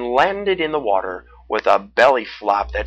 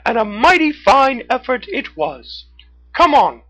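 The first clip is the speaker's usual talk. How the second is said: high, bright cartoon raccoon; 14 semitones higher, 9 dB louder than usual. A narrator's reading. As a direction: pitch way up for a friendly raccoon. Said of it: "Red the Raccoon".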